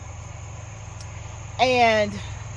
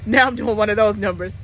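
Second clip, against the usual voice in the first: getting emotional. Real, not acted. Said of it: "I didn't think I was gonna get emotional".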